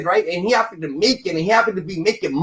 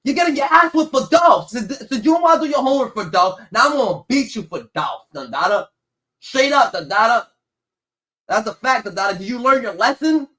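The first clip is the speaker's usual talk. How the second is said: mock angry yell; 4 semitones higher than usual. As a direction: yell it out while punishing. Father yells while belting.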